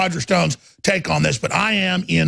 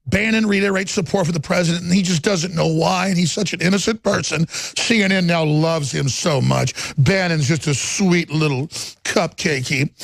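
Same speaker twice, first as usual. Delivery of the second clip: mocking CNN. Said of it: "C N N says".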